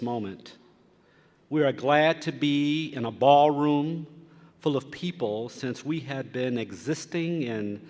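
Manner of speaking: earnest invocation prayer voice. Acted. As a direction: pray over the gathered room.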